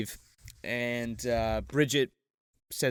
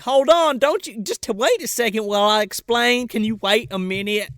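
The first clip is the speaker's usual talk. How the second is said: higher, pleading put-on voice; flustered sister; 6 semitones higher, 4 dB louder than usual. Sister asks brother to wait while explaining, higher flustered mock plea. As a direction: stumble urgently through a stall.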